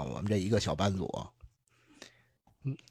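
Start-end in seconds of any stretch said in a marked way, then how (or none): none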